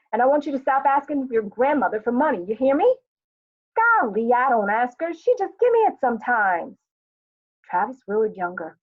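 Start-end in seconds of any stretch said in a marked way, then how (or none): 0.1-3.0 put-on raised, louder warning to a child; exasperated parent, voice pitched up; scolding mother. Acted mother ordering son to stop. 3.8-6.8 put-on protesting boy. Acted boy protesting to his mother.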